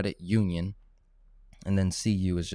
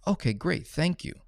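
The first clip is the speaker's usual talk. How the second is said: higher, sweet phone voice; polite caller; 9 semitones higher than usual. Shown as a demonstration. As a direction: thank the banker brightly, pitched up. Caller role-plays phone call with bank.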